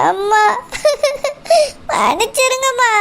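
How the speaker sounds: begging through tears, half laughing; a weepy, broken sorry; tearful plea. Acted. Daughter pleading with her angry mother, crying.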